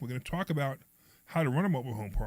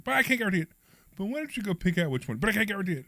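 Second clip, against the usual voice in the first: imitating waiter; 7 semitones higher, 3 dB louder than usual. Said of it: "He's like".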